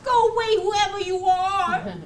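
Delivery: loud go away. Acted. Puppet shoos someone off.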